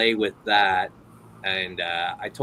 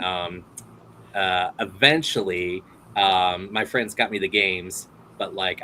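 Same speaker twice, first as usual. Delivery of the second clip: normal talking voice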